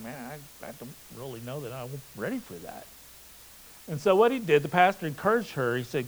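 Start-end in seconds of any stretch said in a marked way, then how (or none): 0.0-2.9 soft, hesitant and quick; timid quiet voice. Retold or imitated. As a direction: mumble it shyly. Shy girl voiced hesitating.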